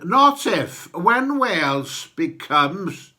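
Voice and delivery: put-on sonorous North Walian accent, building up; rolling North Wales accent, rising to proclamation. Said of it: "in my sonorous North Walian accent".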